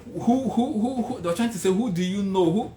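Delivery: high, hammering repeated questions; insistent questioning. Retold or imitated. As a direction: mimic an interviewer pressing for a name. Acted interviewer pressing him.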